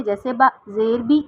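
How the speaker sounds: بی said with a sudden jerk and rise; jerked wrong reading. Shown as a demonstration. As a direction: jolt out با زیر بی abruptly, the wrong way. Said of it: "جھٹکا دے کے نہیں پڑھتے". (بی کو جھٹکے سے، غلط طریقہ)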